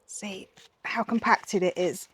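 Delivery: soft unvoiced whisper. Real, not acted. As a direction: whisper it to yourself. Quiet aside while repotting.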